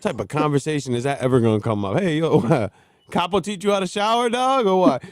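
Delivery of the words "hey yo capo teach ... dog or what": mock casual question. Mimics an absurd conversation opener.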